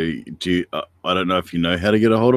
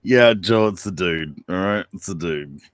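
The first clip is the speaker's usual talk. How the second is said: put-on laid-back New Zealand accent, Kiwi vowels; 3 semitones lower, slower than usual. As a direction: talk like a chill Kiwi bloke. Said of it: "It's that New Zealand accent".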